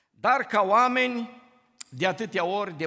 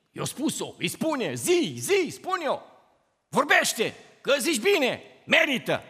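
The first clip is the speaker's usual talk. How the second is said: mock quarrel egging on; 4 semitones higher than usual. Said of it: "la un conflict".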